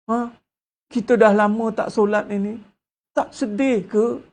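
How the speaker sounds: milk the feelings, lightly mocked; mock tearful appeal. Preacher mocking emotional sermons, in a mock tearful appeal. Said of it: "dia mula ayat macam tu".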